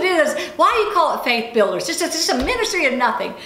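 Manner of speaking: high-pitched, exasperated retold rant; mock fury. Speaker complaining to God about her ministry, comically furious. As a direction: protest indignantly, with amusement breaking through. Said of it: "I'm just furious".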